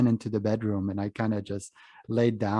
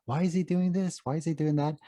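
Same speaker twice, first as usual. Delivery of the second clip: higher-pitched mock bewilderment; retold bafflement; 7 semitones higher than usual. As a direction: act out being baffled, pitch up. Acting out confusion at the TV jokes.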